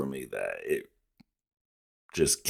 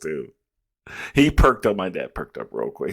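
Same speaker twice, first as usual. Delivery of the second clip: normal talking voice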